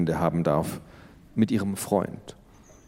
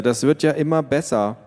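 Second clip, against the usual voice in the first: sarcastic; 5 semitones higher than usual. Acted. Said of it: "sagte Luisa".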